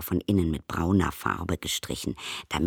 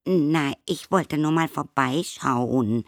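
high, slow hesitant stammer; stammering visitor; 9 semitones higher, 4 dB louder than usual. A narrator's reading. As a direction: falter it out nervously.

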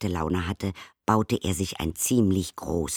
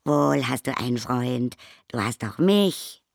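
higher and louder, beaming; 6 semitones higher, 4 dB louder than usual. A narrator's reading. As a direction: say it glowing with joy. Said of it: "strahlte das Tingeli".

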